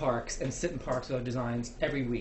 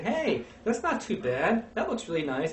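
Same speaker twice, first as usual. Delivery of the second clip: pleasantly surprised passerby; 4 semitones higher, slower than usual. Retold or imitated. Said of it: "people will say".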